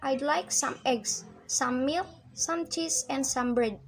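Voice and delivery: listing with a rise on "eggs", "milk", "cheese", settling on "bread"; rising list intonation. Shown as a demonstration. Student demonstrates a spoken list, rising on "eggs", "milk", "cheese". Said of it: "dibacanya naik".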